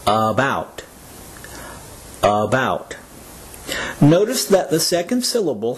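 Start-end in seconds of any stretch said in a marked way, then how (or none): 0.1-0.8 "About" said slowly, syllable by syllable; slowed syllables. Shown as a demonstration. Teacher letting learners hear the syllables, "About" said slowly. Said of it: "if you say each word slowly". 2.2-3.0 "About" said slowly, syllable by syllable; slowed syllables. Shown as a demonstration. Teacher letting learners hear the syllables, "About" said slowly. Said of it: "if you say each word slowly".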